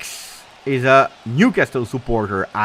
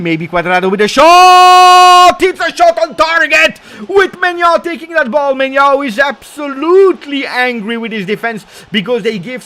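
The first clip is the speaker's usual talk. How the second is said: much higher and louder, stretched out at first; excited goal-chance call; 13 semitones higher, 9 dB louder than usual. Real, not acted. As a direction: erupt as the shot flies on target. Shot on target, commentator erupts.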